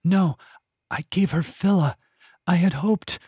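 high, anguished, breaking lament; distraught. A narrator's reading. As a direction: mourn it in disbelief. Finta distraught over cat.

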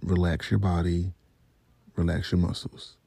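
low, measured self-soothing; quietly calming yourself; calming self-talk. Retold or imitated. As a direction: talk yourself down gently, pausing between phrases. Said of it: "started to freak out, but then I was like".

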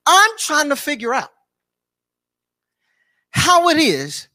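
impassioned preacher, voice up and driving; fervent preaching. Real, not acted. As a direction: preach it with rising conviction, phrase after phrase. Preaches his puzzlement at full force.

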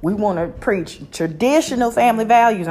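put-on Southern accent. Vlogger mocking Republican senators in a light Southern accent. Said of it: "I don't know why I adopted that accent".

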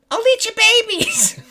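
very high squeaky monster threat. Retold or imitated. Co-host replaying Tyson's trash talk, squeaky monster voice. Quoting Tyson's line to opponent.

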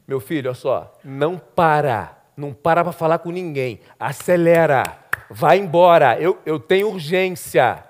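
low, measured insistence; urgent mother, understated. Acted. Voices the mother urging her servant.

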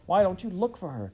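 high, loud accusing cry. A narrator's reading. Carrie crying out at Laura in a panic, high and loud. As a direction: cry out at her sister in a panic. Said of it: "Carrie cried".

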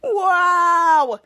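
loud, drawn-out awe; amazed wow. Retold or imitated. Jasper hearing he stopped the biker, loud amazed wow. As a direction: let the wonder spill out. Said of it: "Jasper's like".

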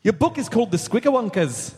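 Scottish attempt slipping into Irish; Irish accent. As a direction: do a lilting mock Irish accent. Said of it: "Nope, that's Irish".

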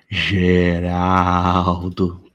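very slow, deep creepy voice; creature voice. Acted. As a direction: drag the name out, eerie.

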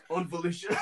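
hammed-up New Zealand voice acting; bad New Zealand accent. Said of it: "some quality voice acting here".

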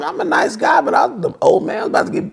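real laughter breaking up the words, pitched high; laughing through the words. Real, not acted. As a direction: laugh as you say it, barely holding it together. Laughing at his own joke.

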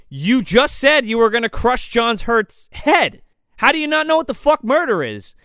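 mock outrage; incredulous rant. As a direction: argue at the screen, exasperated. Speaker arguing at the screen.

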